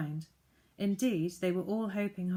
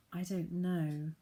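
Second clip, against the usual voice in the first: worried; slower than usual. Acted. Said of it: "in a worried voice".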